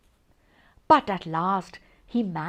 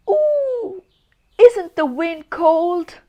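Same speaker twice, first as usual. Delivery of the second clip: shivering snowman; 8 semitones higher, 4 dB louder, slower than usual. Acted.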